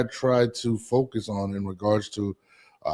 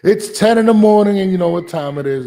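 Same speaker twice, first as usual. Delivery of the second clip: loud, high show opener; hyped radio intro; 7 semitones higher, 9 dB louder than usual. Acted. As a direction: open the show like a morning DJ.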